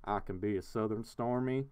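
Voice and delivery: Southern accent demo at an easy, understated level. Shown as a demonstration. Streamer showing off different accents to chat, Southern accent. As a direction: put on a light Southern accent. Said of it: "I can have different accents".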